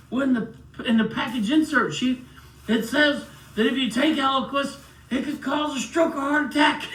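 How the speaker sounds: high and loud, laughing through the words; laughing while quoting. Retold or imitated. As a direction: gloat through laughter at the irony. Gleefully quoting the insert sheet.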